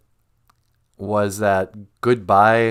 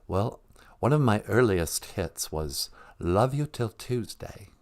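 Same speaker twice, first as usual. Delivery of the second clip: lightly voiced British rock star caller; a softer, polite English celebrity voice; a singer; 6 dB quieter than usual. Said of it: "Hello" followed by a singer's name.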